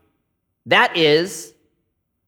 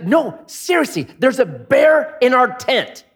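mock fear; 7 semitones higher than usual. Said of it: "He's like".

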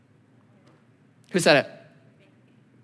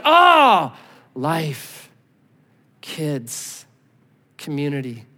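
mock zombie moan; 4 semitones lower, much slower than usual. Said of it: "Like zombies are like".

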